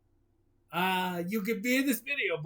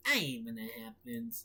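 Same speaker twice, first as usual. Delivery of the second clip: much lower, softer grumble; gruff low voice; 10 semitones lower, 9 dB quieter than usual. Acted. Gruff crowd voice.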